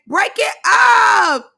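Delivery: slow, loud, high mock shout. Lex shouting from the back at the brawl, slow loud yell. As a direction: yell to break up the fight. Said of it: "You hear Lex in the back".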